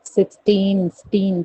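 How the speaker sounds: "सिक्सटीन" with a long "टीन"; stress on TEEN. Shown as a demonstration. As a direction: lean on the "टीन". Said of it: "टीन पे ज्यादा".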